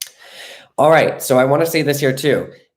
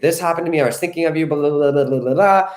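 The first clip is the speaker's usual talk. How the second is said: imitating a partner rambling an explanation, pitched higher; partner explaining; 5 semitones higher, faster than usual. Coach mimics the partner explaining his change of heart, high and breezy. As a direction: play the partner, high and breezy, trailing into blah blah. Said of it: "they're gonna be like".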